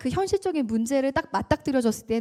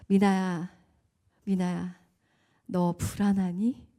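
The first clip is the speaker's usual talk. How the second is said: voice of God; 4 semitones lower, slower than usual. Retold or imitated. God speaking to her in prayer.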